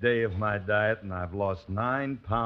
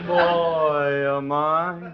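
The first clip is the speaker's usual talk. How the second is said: creepy villain voice; 6 semitones higher, 7 dB louder, much slower than usual. Acted. Repeated louder, menacing.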